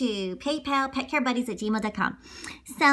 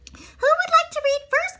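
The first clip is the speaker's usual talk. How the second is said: teacher voice; 3 dB louder than usual. Acted. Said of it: "asked Missus Hart".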